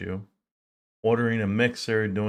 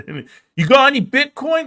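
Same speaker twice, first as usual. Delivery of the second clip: much higher, louder, slow mock question; older man asking; 7 dB louder than usual. Older man quizzes the vlogger on his crypto, in a high, slow, mock voice. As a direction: put on the nosy older guy asking about coins. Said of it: "That's what he asked me".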